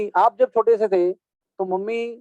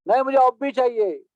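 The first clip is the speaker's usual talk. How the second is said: put-on stubborn child; 6 semitones higher than usual. Child Krishna stubbornly insists.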